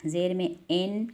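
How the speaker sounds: ज़ेर में एन with a long e, demonstrating the mistake; mock the wrong एन sound, rising at the end; wrong reading shown. Shown as a demonstration. Teacher shows students a common mistake, demonstrating. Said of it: "ज़ेर में ... गलत होता है".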